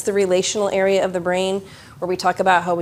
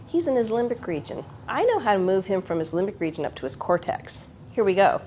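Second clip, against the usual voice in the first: inner calm voice; 6 dB quieter than usual. Retold or imitated. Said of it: "I can just say in my head".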